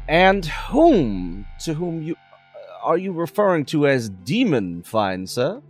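character voice. Acted. Tabaxi player voices his character.

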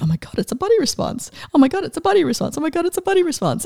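growing thrill with every repeat; building excitement. Retold or imitated. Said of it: "this excitement of".

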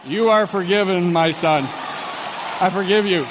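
lightly put-on priestly absolution; mock priest. Pastor granting the apologetic cop forgiveness, mock solemn priest.

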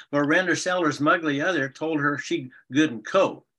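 playful fairy tale narration of spoonerisms; storytelling. Shown as a demonstration. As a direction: tell the fairy tale for the grandkids. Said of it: "tell her just a couple lines of Render".

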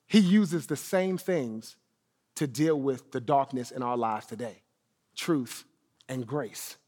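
soft preaching. Real, not acted. Sermon point softly landed.

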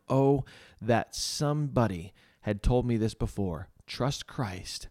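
measured, emphatic reading aloud; story reading. A narrator's reading. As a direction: read an old testimony to listeners, landing key words. Reads Spurgeon's written testimony aloud.

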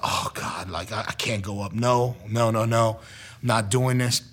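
low, hushed reluctant groaning to himself; quiet dread. Retold or imitated. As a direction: shrink back, voice dropped low. Retells dread of going to the altar.

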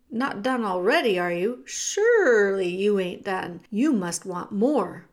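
loud, urgent cook shooing the mouse; Cook's rough voice. Acted. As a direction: push him to run, now. Cook coaxing him.

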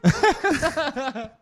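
mock mishearing.

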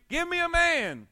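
high, loud, drawn-out challenge; giant's shout. Retold or imitated. Preacher as Goliath calling out to Israel, mock bellow. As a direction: bellow the dare across the valley, slow.

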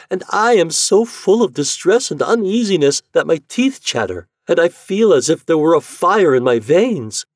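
high, loud, anguished complaint; agitated, high-pitched storybook anguish; distressed wife. Acted.

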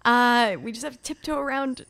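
imitating the wife. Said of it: "I'm just like".

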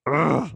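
exasperated "ugh" growl; mad growl. Retold or imitated. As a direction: growl it out in frustration. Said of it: "makes me so mad. I'm like".

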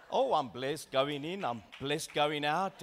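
slow, mock-holy churchgoer reply; slow put-on piety; pious churchgoer. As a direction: send up a sanctimonious believer, drawn out. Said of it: "all of a sudden you transition and you change".

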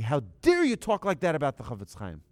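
high, loud mock indignation; outraged rebuke. Man slapping a stranger who slighted the great rabbi, outraged.

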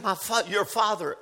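hushed, low awkward quote; awkward admission. Retold or imitated. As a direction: drop the voice as if reluctant to say it. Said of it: "she was a little bit awkward to say".

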